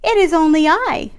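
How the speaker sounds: high little goat voice; goat bleat. Acted. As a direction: lightly bleat it like a small goat. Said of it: "the second billy goat bleated".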